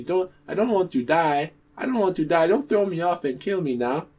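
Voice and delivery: high, desperate begging; scared pleading. Acted. Tortoise begging the bird guards for mercy, high and frightened. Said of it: "he became very scared and began to plead".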